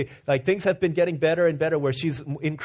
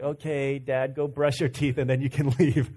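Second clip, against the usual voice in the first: put-on groggy child; 4 semitones lower than usual. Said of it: "groggy, and she's like".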